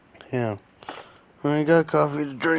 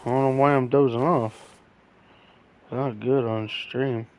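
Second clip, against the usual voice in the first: barely awake, words dragging; nodding off. Real, not acted. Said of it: "I just dozed off for a second there".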